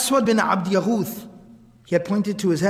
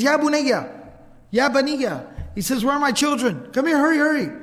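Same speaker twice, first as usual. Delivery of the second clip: retold calling out; 5 semitones higher than usual. Man in his garden calls his children over, retold urgent call. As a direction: imitate a man calling for help, pitch lifted. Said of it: "And he calls out to his family".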